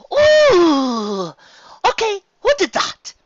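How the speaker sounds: high startled yelp, then a prissy demand; a lady jolted by a cold drop; high, startled and indignant; surprised Rarity. Acted. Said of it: "Rarity was the most surprised".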